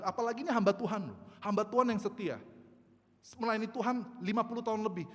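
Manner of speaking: loud, high cry of protest to God; anguished protest. Retold or imitated. (protes pilu dengan suara lantang)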